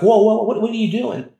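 high-pitched shocked protest, loud at the start; alarmed onlookers. Retold or imitated. Onlookers to the preacher shaking a girl, acted alarm. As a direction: imitate a bystander blurting out in shock.

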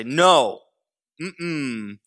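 lightly voiced stubborn toddler no; a hint of a small child saying no; toddler refusing. Toddler Elijah refusing a nap, lightly voiced. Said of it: "He'll say".

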